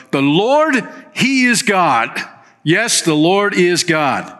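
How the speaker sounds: people crying out, pitched high and ringing. Acted. Israelites crying out that the Lord is God, high ringing call. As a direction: call it out like a crowd falling on their faces. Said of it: "cried out".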